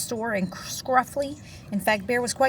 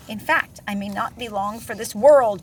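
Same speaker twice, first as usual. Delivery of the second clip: huffed; 8 dB louder than usual. Acted. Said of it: "Bear huffed".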